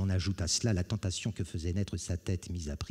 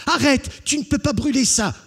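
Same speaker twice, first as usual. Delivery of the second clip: high, loud, fast wail; desperate plea; 9 dB louder than usual. Acted. Jean to Hugues burning pages, high desperate wail. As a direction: beg like a child losing a toy.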